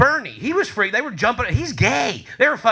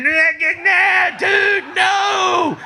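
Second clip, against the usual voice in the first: guards protesting; 11 semitones higher, 5 dB louder, much slower than usual. Retold or imitated. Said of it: "guards were going".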